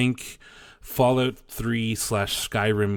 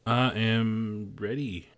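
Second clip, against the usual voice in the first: slow, limp agreement with zero conviction; half-hearted deadpan; unconvincing; 3 semitones higher, much slower than usual. Real, not acted. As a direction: say you're ready while clearly not ready at all. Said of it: "That sounded so convincing".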